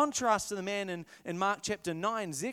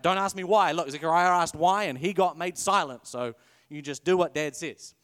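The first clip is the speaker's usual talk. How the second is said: stern parent; 2 semitones lower, 6 dB louder than usual. Pretend. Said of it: "read this to my kids".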